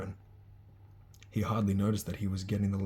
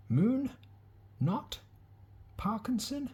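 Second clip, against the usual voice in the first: high, carrying teacher's roll call; a stern witch reading names aloud; slower than usual. Acted. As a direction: call each name out to the hall. Calling names for sorting.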